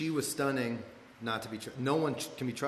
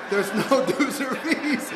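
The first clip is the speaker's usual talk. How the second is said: high, loud, drawn-out mock chant; group echo; 9 semitones higher, 6 dB louder, much slower than usual. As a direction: parrot it slowly like an entranced crowd. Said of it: "And everyone's like".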